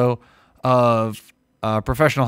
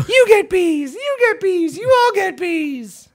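Oprah giveaway; slower than usual. Retold or imitated. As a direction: bellow it out like Oprah handing out cars. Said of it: "an Oprah Winfrey meme".

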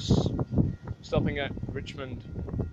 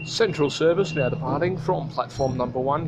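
loud stretched station calls; 3 dB louder than usual. Pretend. Station departure call.

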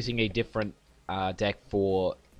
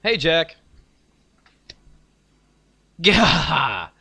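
eager high voice; 8 semitones higher, 5 dB louder, slower than usual. Acted. Voices character greeting Jack.

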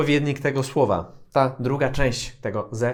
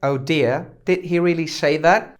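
surprised; slower than usual. Shown as a demonstration.

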